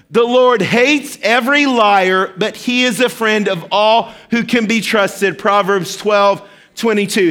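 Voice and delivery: slow, deliberate group recitation. Shown as a demonstration. Pastor leading the congregation in a slow, emphatic verse recitation. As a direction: lead the church through it word by word. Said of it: "Second time, here we go".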